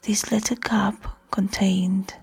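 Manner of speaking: ASMR whisper. Shown as a demonstration. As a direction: keep the hush of an ASMR video. Continues ASMR demo with cup.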